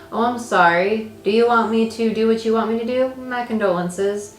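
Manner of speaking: mock apology, put-on sympathy; sarcastic. Mocking someone who wants them to obey, sarcastic. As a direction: feign being sorry, dripping with sarcasm. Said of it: "I feel sarcasm with this".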